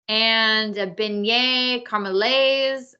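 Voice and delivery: beignet caramelaise said slowly in French style; slow, careful French on the pastry name; French pronunciation. Shown as a demonstration. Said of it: "I'll do the French".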